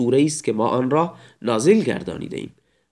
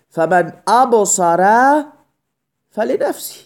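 slow recitation; 7 semitones higher, 4 dB louder, slower than usual. Shown as a demonstration. Teacher quotes Quran verse slowly.

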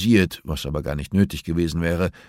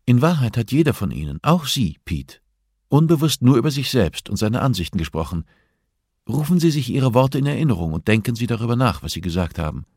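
a touch higher, calm and composed therapist; lightly voiced therapist Hannah; 5 semitones higher than usual. Hannah explains to the inmates. (leicht gesprochene Therapeutin, ruhig und bestimmt)

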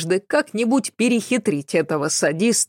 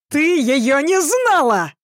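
shrill hysterical scream, pitch way up, louder; hysterical yell; 9 semitones higher, 4 dB louder than usual. A narrator's reading. Son screams defending his dead mother, hysterical. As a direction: shriek it, losing control.

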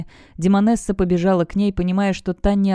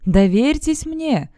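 slow, higher insisting call; 8 semitones higher, 3 dB louder, slower than usual. A narrator's reading. Voice from the abyss keeps insisting, slow and raised. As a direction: press them to trust you. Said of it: "продолжал настаивать голос".

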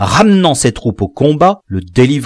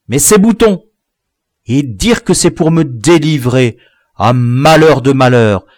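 put-on higher, louder dismayed boy voices; lamenting village boys; 5 semitones higher, 4 dB louder than usual. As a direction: grieve the lost buttons.

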